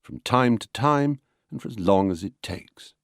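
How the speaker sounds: light push on "time", "long", "takes"; stress-timed rhythm. Shown as a demonstration. Lecturer repeating the example, stressing "time", "long" and "takes". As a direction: glide over "from", "to", "as", land on "time", "long", "takes". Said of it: "give a little push to the important words".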